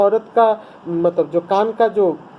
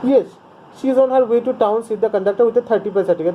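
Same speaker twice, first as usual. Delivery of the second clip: curt; slower than usual. A narrator's reading. Teacher reads the English text.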